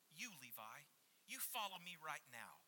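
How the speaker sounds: a firm, demanding order with no warmth; stern command. Shown as a demonstration. Jesus ordering tax collector Levi to follow, stern and demanding. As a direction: bark it as an order he must obey. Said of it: "does your ear hear Jesus saying".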